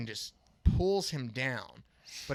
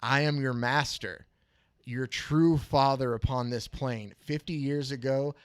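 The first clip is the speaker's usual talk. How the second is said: a commanding sorcerer, a bit louder; domineering master voice; 4 dB louder than usual. Retold or imitated. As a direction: claim him as his creature. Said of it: "the mystery figure says".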